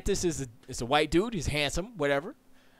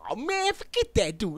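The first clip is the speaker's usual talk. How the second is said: DeSantis reaction; 8 semitones higher than usual. Retold or imitated. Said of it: "he's like".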